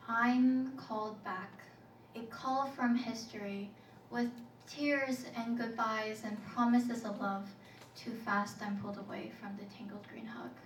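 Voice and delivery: measured poetry recital; spoken-word poem. Acted. Poet called back to an old place, measured recital. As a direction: recite in short, deliberate phrases.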